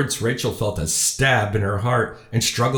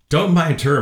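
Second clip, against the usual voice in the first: raised, higher dismissive interjection; brushing it off; 6 semitones higher, 5 dB louder than usual. A narrator's reading. Father cuts in to brush off her remarks, louder and higher. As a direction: wave the worry away, louder.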